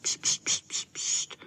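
string of quick voiceless hushes; shushing. A narrator's reading. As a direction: hush them urgently, breath only. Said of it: "ale hned dělali pst". (šeptané pšt)

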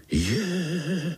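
high scared little cry; startled squeak of many spiderlings; frightened chorus gasp. Acted. Spiderlings frightened by uncle's tale, high startled gasp. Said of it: "vylekali se pavoučci sborem".

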